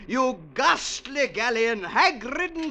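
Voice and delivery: lightly hammed theatrical recital; a hint of an old ham actor reciting; mild grand-guignol declaiming; stage declamation. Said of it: "We did a play about her".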